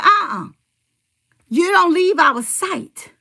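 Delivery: mild mock scolding; a touch of a bossy girl; niece scolding grandma. Niece scolding her grandma, mild mock scold. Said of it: "my niece said".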